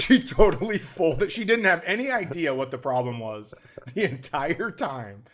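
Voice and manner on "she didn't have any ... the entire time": normal talking voice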